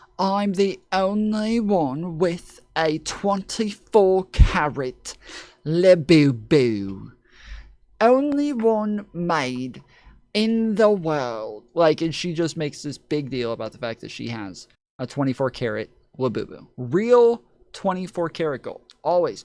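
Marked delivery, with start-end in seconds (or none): 0.2-11.7 put-on very posh British accent, high, very slow. Retelling a woman's video about her gold toy: imitating a very posh british accent. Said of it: "She has this very posh British, British accent".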